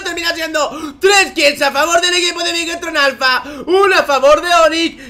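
loud, high esports casting shout; hype play-by-play. Acted. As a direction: call the teamfight at full hype. Live play-by-play of a fight.

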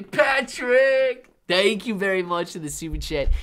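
high, loud mock AI announcer; mock robot voice. Thanking Patrick for a super chat, mock AI voice. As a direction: play a robot taking over, lightly. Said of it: "A I is taking over".

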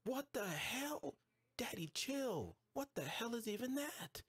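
high, slow shocked outburst. Real, not acted. Spotting a monster with a health bar, high shocked disbelief. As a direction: stretch it out in disbelief.

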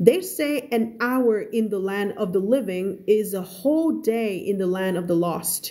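slow, careful read-aloud of a novel; story reading. Acted. Teacher reading a story to her students, slow and careful. Rereading the quote.

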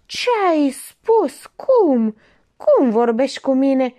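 high, loud, slow indignant cry; husband outraged by his wife's jibe. A narrator's reading.

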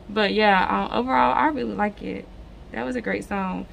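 hoarse and stuffed-up from a cold; slightly raspy, blocked-nose voice; raspy congested voice. Real, not acted. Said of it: "hear the little raspy voice".

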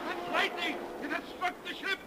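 ordinary talk, nothing marked

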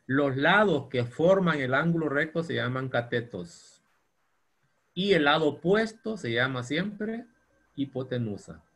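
Los lados que forman el ángulo recto dictated slowly; teacher dictating, slow; slow dictation. Shown as a demonstration. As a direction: spell it out slowly for note-taking. Dictating a definition.

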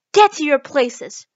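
slow, booming command; loud, drawn-out royal shout; thunderous shout. A narrator's reading. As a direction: bellow the order like a queen. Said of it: "shouted the Queen in a voice of thunder".

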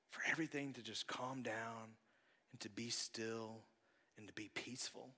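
soft, fading calm; hushed calm. Real, not acted. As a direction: let the voice settle into peace. Describing stillness after the storm.

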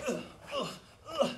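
short grunts, as if punched; mock grunts of impact. Shown as a demonstration. Martial arts teacher showing hits on a big target, mock impact grunts. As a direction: grunt with each imagined blow.

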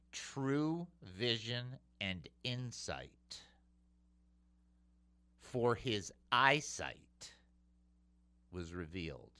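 slow, quiet weighing of each word; slow hushed preaching line; slow emphasis. Acted. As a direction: let each word land slowly. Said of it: "slow emphatic phrase".

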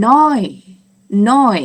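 "น้อย" high and loud, pitch arching down, as German neun; German neun demonstration. Shown as a demonstration. Teacher repeats German nine, high loud "น้อย". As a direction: model "น้อย" firmly for learners. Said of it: "ออกเสียงว่า".

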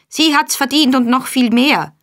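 high, loud scolding; shrill angry shout. A narrator's reading. Mistress screaming at the boy, high and loud. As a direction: yell it up high in spite. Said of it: "schrie die Meisterin".

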